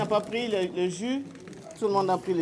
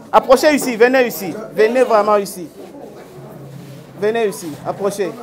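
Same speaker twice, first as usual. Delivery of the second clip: calling out laughing; 3 dB louder than usual. Real, not acted. Host calls children closer, laughing.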